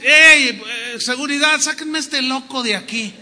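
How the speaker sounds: loud, alarmed call to the guards; a startled boss yelling for help; mock call for security. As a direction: shout for security, half joking. Interviewer calls security.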